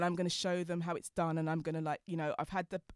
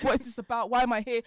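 louder, exasperated mock rant; imitating her frustrated self in the bank, a touch louder; mild frustrated outburst; 5 semitones higher, 8 dB louder than usual. In the bank, fed up with the staff, loud mock frustration. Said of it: "I'm cursing".

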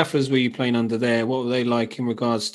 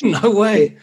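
high-pitched laughing "no way"; amazed disbelief; 8 semitones higher, 4 dB louder than usual. Real, not acted. Reacting to wild brawl story.

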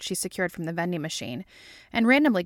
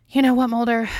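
higher, louder exasperation; fed up, raised voice; exasperated retort; 5 semitones higher, 8 dB louder than usual. A narrator's reading. Scully snapping at Mulder in a motel quarrel, exasperated.

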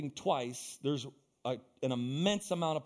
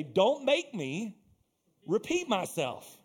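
slow, drawn-out mock warning, a touch of annoyance; exasperated warning; 4 semitones higher, 3 dB louder, slower than usual. Imitating how people sound when forced to repeat, slow and fed up. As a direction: drag it out like a fed-up parent. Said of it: "we say it like this".

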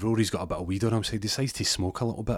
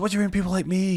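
high indignant; 12 semitones higher, 3 dB louder, faster than usual. Retold or imitated. Rory's indignant reply voiced.

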